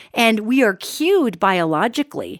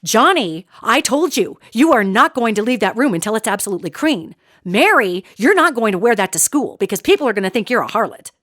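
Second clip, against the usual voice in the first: scolding parent. Retold or imitated. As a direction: rattle off a parent's telling-off. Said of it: "That's where we've heard that tone".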